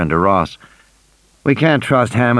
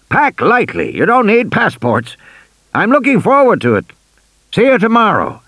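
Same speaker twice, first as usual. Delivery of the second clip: a hint of an eager old tycoon, higher; chatty old man pitching his park, pitched up; lightly voiced old man; 6 semitones higher than usual. A narrator's reading. Old Hammond pitching his park to Grant, eager and higher.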